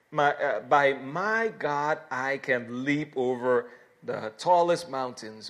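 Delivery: loud, emphatic pulpit reading; declamatory scripture reading. Real, not acted. Preacher reading the psalm to his congregation, declamatory. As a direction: proclaim each verse with weight.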